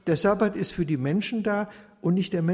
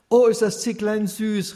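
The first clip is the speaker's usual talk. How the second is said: delighted exclaim; 6 semitones higher, 6 dB louder than usual. A narrator's reading. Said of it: "rief Baruch".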